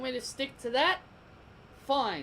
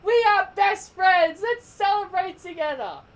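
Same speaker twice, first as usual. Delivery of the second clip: much higher, much louder, sugary mock voice; mocking goody two shoes; 7 semitones higher, 7 dB louder than usual. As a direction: ham up a fake-sweet cheerleader. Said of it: "Miss Goody Two Shoes over here".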